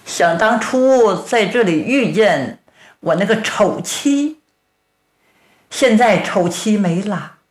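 mournful strongman's lament; grieving Tang Tieniu. Acted. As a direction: sigh it out like a widower missing his wife. Tang Tieniu mourns his wife.

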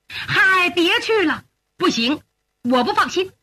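anxious objection. Acted. Mother forbids son to leave.

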